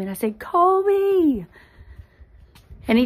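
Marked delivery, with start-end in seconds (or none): 0.4-1.5 high sharp call of a name; hollered name. Retold or imitated. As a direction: yell the name in sudden alarm. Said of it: "I hollered his name".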